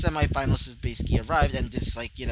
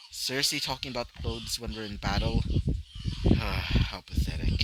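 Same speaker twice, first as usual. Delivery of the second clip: scornful fighter; 3 semitones lower than usual. Acted. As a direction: look down on him and sneer. Character mocks opponent in battle.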